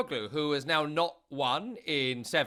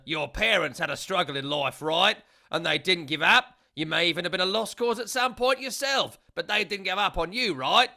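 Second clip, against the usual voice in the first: raised, preachy manager lecturing; Ange Postecoglou; 4 semitones higher, 5 dB louder than usual. Retold or imitated. Manager lectures a reporter about giving up, raised voice. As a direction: hammer the point home with rising rights. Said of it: "And he said, quote".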